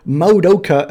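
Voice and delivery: MADOKA said as "mow-doh-ka" with gliding vowels; too bumpy. Shown as a demonstration. Streamer imitates people's wrong pronunciation, too bumpy. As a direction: hit "Madoka" in big bumpy syllables. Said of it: "way too bumpy".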